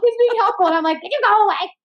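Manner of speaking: high, exasperated; high mock annoyance. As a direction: play the irritated wife lightly. Retelling snapping at husband.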